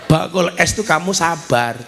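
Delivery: ordinary delivery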